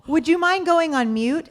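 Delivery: a hint of a condescending older man; mocking board man. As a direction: ask it with fake courtesy. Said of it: "one of the men from the board goes".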